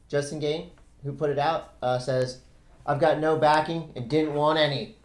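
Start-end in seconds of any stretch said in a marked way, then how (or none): 2.9-5.0 a weak Australian accent attempt; half-hearted Aussie accent. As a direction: quote him in a bad Australian accent. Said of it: "That's not a good Australian accent".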